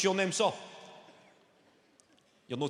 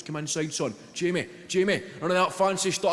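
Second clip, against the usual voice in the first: put-on a touch louder, barking at a kid on the touchline; mock coach yelling; 3 dB louder than usual. Touchline coach to nine-year-old Jamie, mild mock yell. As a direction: play the touchline manager roaring at the wee boy. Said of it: "Just screaming".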